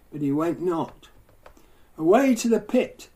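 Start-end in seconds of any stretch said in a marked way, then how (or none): 2.0-3.1 a raised, higher mock command; crying out. Disciples crying at the demon to leave, raised mock cry. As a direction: call it out as a hammed-up exorcist. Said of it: "they cried".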